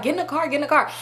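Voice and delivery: mildly high mock urgency, not shouted; toned-down dramatic imitation. Friend urging her into the car, mildly mocked drama. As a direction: lightly mimic a fussing friend. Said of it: "it was really how dramatic she was being".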